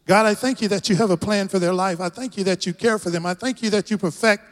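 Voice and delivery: earnest public prayer in short phrases; spoken prayer. Real, not acted. Pastor praying over the congregation before preaching, earnest prayer. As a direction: pray aloud, pausing between phrases.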